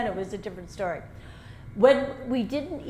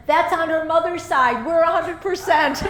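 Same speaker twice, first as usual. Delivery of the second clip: proud retort; 7 semitones higher, 8 dB louder than usual. Retold or imitated. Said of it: "one of my cousins stood up and said".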